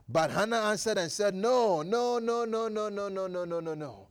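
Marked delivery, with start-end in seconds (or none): 1.3-4.1 fading denial. Acted. Hannah denies being drunk.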